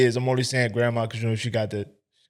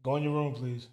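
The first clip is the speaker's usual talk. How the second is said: hushed aside; 6 dB quieter than usual. Real, not acted. Host hushes the child at the door, softly.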